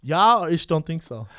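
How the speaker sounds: slow, loud hammed-up German; mock German accent. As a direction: put on a jokey German accent.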